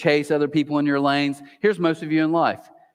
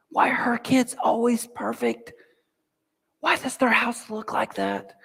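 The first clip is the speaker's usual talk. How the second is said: envious inner voice; 8 semitones higher than usual. Retold or imitated. Continues the comparison voice.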